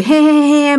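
imitated odd "he he he" laugh; strange cackle. Storyteller imitating the mysterious woman's laugh, strange cackle. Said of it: "nghe cái giọng bà kỳ lắm".

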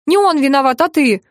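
a lightly sharpened blunt reproach; sharp retort. Acted. Older woman mildly turns the blame sharply onto the stepfather. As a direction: snap the blame back at him, mildly. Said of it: "вдруг резко заявила Горелова".

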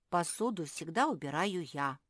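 plain reading voice

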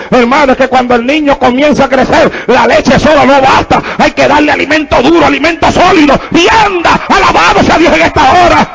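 rising pulpit fervor; fervent preaching. Real, not acted. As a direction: drive the point home to the congregation. Preaches at full force.

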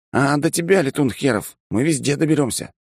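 high teasing threat; lightly voiced rowdy threat; mock menacing soldier.

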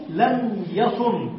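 drawn-out demo of لم يصن, each sound clear; teacher slowly models لم يصن for students; slow example form. Shown as a demonstration. Teacher to class, slow clear model. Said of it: "تقول".

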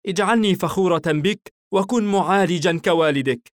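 high, tender mother voice; gentle proud mother; smiling mother. A narrator's reading. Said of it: "ابتسمت نارا".

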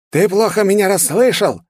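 high, loud panicked villain threat; hysterical shriek. A narrator's reading. Demon shrieks his threat at the hero, hysterical. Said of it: "продолжал кричать демон".

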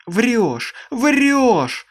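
harsh, piercing, high screaming; shrill scream. Acted. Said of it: "всё кричала Аманда резким, пронзительным голосом".

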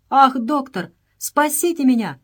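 high, loud plea for rescue; desperate cry. A narrator's reading. Stop begs the doctor for his life, high and loud. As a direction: beg the doctor to save you. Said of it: "воскликнул он".

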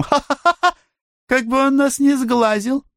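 high, bright laughing outburst; ringing laugh. Acted. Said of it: "залилась звонко-бронзовым смехом". (звонкий смех, высоко)

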